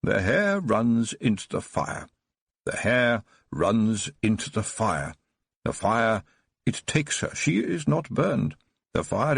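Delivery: slow, chanting recitation; reciting from memory. Acted. The old Baron recites the hare song to Tiffany, slow and chanting. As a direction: intone it like a remembered verse. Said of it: "as if he was reading from an invisible book".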